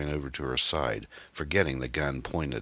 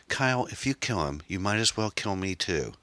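high, earnest woman's voice; high-pitched self-sacrificing appeal; desperate plea; 5 semitones higher than usual. Acted. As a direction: plead in a high voice. Erin offers her own life.

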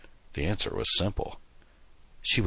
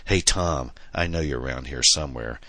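mild mock roar. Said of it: "she roared hysterically".

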